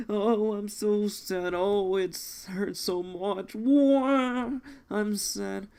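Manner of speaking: mock weeping, milking it for the gag; pretend crying. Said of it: "All right, pretend to cry".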